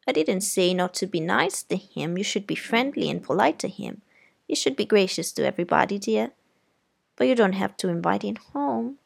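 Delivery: put-on prim, firm aunt correcting a child; stern aunt. Aunt scolding Scout about Walter, prim and firm. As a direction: lecture the girl politely but firmly.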